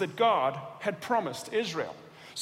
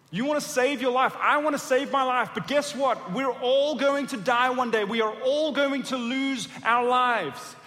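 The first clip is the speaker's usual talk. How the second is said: preaching climax; 2 semitones higher, 4 dB louder than usual. Real, not acted. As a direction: drive the point home to the crowd.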